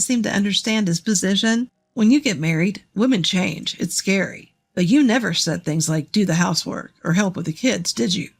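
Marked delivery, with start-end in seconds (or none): 1.9-8.3 griping ex-husband. Acted. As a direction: lower voice of a complaining husband. Narrator voices the ex-husband.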